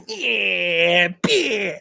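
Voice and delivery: Van Damme kiai. Retold or imitated. Imitating Van Damme's fight yell for chat. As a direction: cry out yeah then a sharp kiai. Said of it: "he was always like".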